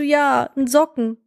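lightly voiced patient parent; patiently confirming parent. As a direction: confirm it slowly to a toddler. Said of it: "Ich so".

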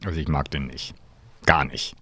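quiet flat dislike. Real, not acted. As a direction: drop the voice, dry and dismissive. Flat rejection of the man.

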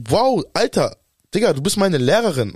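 mock-incredulous, pitch swooping up; indignant disbelief. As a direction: retell a stunned inner reaction, pitch lifted. Retells stunned reaction to teacher's insult.

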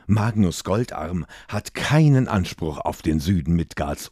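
hissing scornful queen; evil queen. Acted. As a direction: sneer it like a cruel queen. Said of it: "zischte Modra".

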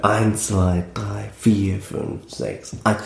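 circling count that lands back on "eins"; round six-count. Shown as a demonstration. Musician shows why six-eight feels round, rolling count. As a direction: roll "eins zwei drei, vier fünf sechs" round like a wheel. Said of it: "ist ganz rund".

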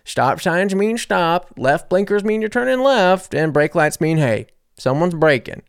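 a touch of a droning rule-by-rule lecture; lecturing instructor. Retold or imitated. Instructor reciting basic road rules to a class, lightly mimicked lecturing. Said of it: "he's kinda talking about".

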